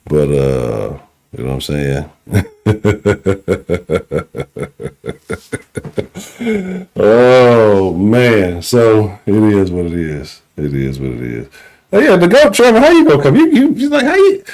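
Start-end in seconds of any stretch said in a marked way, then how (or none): 2.3-6.9 long, drawn-out laugh. Real, not acted. Host alone after the caller hangs up, long laugh. 11.9-14.4 high-pitched, incredulous heckling; mocking trash talk. Host taunting a rival fan about Trevor, high mocking jeer.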